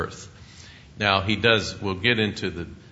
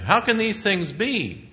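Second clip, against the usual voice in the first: much higher, slow incredulous question; bewildered Nicodemus; 13 semitones higher, 4 dB louder, slower than usual. Acted. Nicodemus baffled by Jesus's words, high and slow. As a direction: ask it in disbelief, drawn out.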